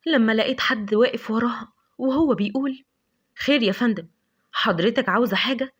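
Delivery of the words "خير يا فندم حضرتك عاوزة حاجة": a hint of a gruff man, close behind her; lightly voiced rough stranger offering help; rough stranger's voice. Stranger behind Lavender in the dark, lightly gruff offer of help. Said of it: "كان صوت شخص خشن جدًا".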